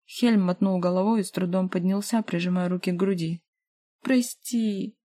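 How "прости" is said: higher, tearful moan; mild near-tearful apology; moaning, near tears. A narrator's reading. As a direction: moan it out close to crying. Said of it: "простонала ... чуть не плача".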